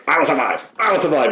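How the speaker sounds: a touch of a crooning showman; mock Tony Clifton sing-song. Friend retells the song stuck in his head, mock crooning. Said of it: "Tony Clifton ... shouting".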